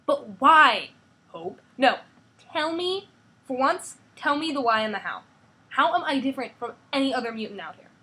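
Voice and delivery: put-on high, loud, upset girl; angry teen. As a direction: shout it back at her father. Hope demands answers, shouting.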